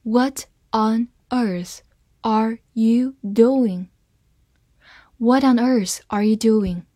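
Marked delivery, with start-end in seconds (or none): 0.0-3.9 half-speed, word by word, evenly separated; slow demo reading. Shown as a demonstration. Teacher modelling the question for learners, slow word-by-word reading. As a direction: read the question slowly for learners, pausing between words. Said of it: "好，慢慢来读".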